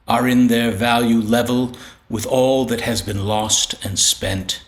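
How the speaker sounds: measured, unhurried recital of a sonnet; poem reading. Acted. Poet reading his sonnet to listeners, measured recital. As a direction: lay each line down with a pause after it.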